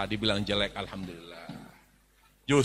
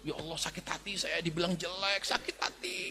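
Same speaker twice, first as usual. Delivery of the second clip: mock hurt complaint; 10 dB quieter than usual. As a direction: act out a woman offended at being called ugly. Voicing offended woman.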